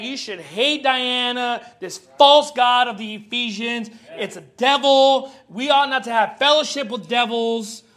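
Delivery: loud, slow preaching of the quote; booming mock sermon to idol worshippers; fervent preaching. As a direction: thunder it out like a street preacher. Preacher voicing Paul's message.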